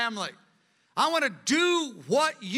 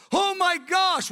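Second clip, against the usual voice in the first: oh my gosh; 8 semitones higher, 4 dB louder, slower than usual. Acted. Preacher exclaims at discovering sin.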